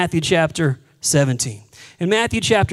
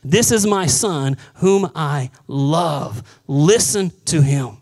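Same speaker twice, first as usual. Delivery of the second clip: booming voice of God; 2 semitones lower, slower than usual. Acted. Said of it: "this voice booming from heaven".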